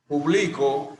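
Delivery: Publico stressed on LI; stress on second syllable. Shown as a demonstration. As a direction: Publico as pu-BLI-co, plain ending. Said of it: "es una palabra grave o llana". (acento en la penúltima: Publico)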